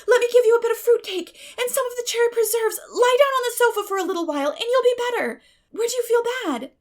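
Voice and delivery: high, loud, quick fussing; anxious young girl. A narrator's reading. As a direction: coax your friend onto the sofa. Anne fusses over sick Diana.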